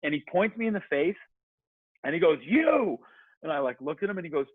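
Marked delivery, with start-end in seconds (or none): 2.4-3.0 high sharp retold yell; sudden high shouted You; mock yell. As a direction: bark it at him like a stranger on the course. Stranger yelling at runner.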